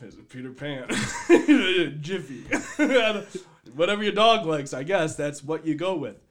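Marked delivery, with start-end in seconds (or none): 0.9-3.2 laughing. Acted. Mock brand guessing, laughing.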